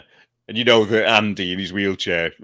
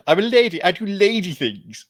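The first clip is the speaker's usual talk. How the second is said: high mock lady voice; hammed-up lady catchphrase; imitating Emily Howard; 11 semitones higher than usual. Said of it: "It's the".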